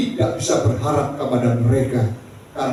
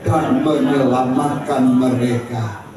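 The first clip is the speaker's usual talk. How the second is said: raised, declaimed Bible reading; scripture reading aloud; 4 semitones higher than usual. Real, not acted. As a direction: lead the congregation through the verse. Leads congregation in reading scripture. (membaca ayat Alkitab dengan lantang)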